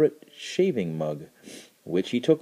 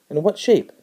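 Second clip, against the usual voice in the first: critically; 8 semitones higher, 5 dB louder than usual. A narrator's reading. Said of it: "the boy asked critically".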